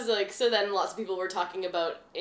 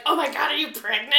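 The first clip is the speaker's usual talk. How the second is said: tag; 4 semitones higher, 4 dB louder than usual. Retold or imitated. Acts out a friend's excited reaction.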